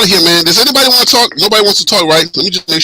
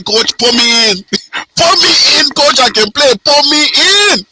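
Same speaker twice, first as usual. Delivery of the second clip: excited higher Liberian English; Liberian accent; 5 semitones higher than usual. Pretend. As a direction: beg the coach to play, Liberian accent. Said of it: "let me get off this Liberian accent".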